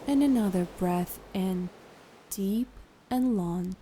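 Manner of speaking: calm, unhurried guided meditation voice. Acted. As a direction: guide a listener into relaxation, leaving long pauses.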